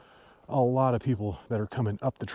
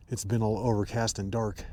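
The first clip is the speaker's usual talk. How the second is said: numb lips from the cold; frozen mouth. Real, not acted. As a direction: speak through a frozen mouth. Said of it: "if I sound funny, it's 'cause my mouth is frozen".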